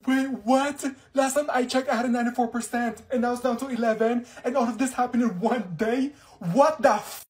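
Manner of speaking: loud, high disbelief; shocked outburst. Acted. Student staring at a crashed grade, shocked and loud. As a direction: yell at the screen in shock.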